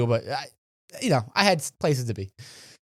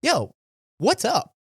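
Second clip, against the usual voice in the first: easy, friendly check-in; showing a friend how the question was meant; genuinely concerned; 6 semitones higher, slower than usual. Shown as a demonstration. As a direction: ask like you honestly care. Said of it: "tell you what I said and how I said it".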